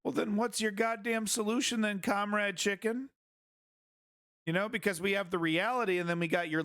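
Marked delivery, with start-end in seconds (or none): 0.0-3.1 higher, taunting challenge, slowing on the nickname; mocking jab. Real, not acted. Streamer taunting the Russian commentator, mocking. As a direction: needle him with the nickname.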